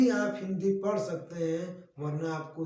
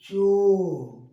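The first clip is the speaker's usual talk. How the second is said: चो called out much louder; loud demo syllable; 9 dB louder than usual. Shown as a demonstration. Teacher to pupils, calling out चो loudly. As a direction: call out चो loud and clear. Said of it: "तो सुनिए".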